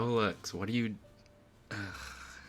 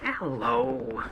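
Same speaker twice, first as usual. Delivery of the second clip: lightly voiced goofy snowman, louder; Olaf; 5 dB louder than usual. Trying an Olaf impression for listeners, cartoon snowman voice. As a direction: give a hint of a cartoon snowman hello. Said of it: "An Olaf impression".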